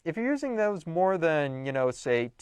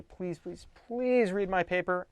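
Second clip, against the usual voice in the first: mock pleading, pitched up; 5 semitones higher, slower than usual. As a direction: beg someone for a favour. Acting out begging a reader.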